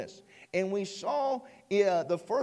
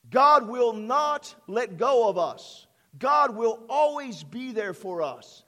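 slow, loud proclamation; preaching emphasis; 3 semitones higher, 7 dB louder, slower than usual. Real, not acted. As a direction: declare it slowly and loudly. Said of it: "Did you hear that?".

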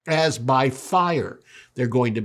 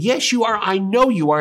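high, louder retold accusation; acted-out contradiction, pitched up and emphatic; mock insistence; 7 semitones higher, 4 dB louder than usual. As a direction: push back harder, imitating an insistent accuser. Girl insists harder, retold quarrel.

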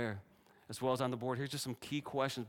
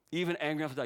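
defiant repeat; 4 semitones higher, 4 dB louder, much faster than usual. Acted. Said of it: "repeats Jonah's line".

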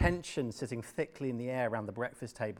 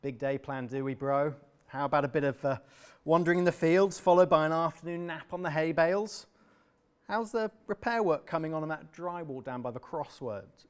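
sarcastic taunt; 3 semitones higher, 4 dB louder than usual. Acted. Adam taunting lazy brother.

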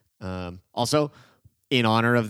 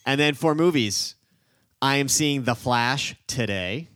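monster truck announcer; 3 semitones higher, 4 dB louder, slower than usual. Real, not acted. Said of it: "You also sound like a, a monster, monster truck announcer".

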